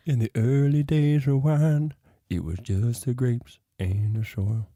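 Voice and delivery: slow, grand storyteller voice; lightly voiced movie trailer narrator; epic fantasy narrator. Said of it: "bust into a little song".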